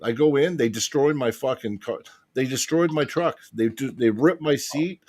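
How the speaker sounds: worked-up rant, pitch riding high; really upset. Real, not acted. Traveller telling friends about border search, really upset. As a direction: vent real indignation about your wrecked truck. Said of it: "sorry, I'm getting all upset".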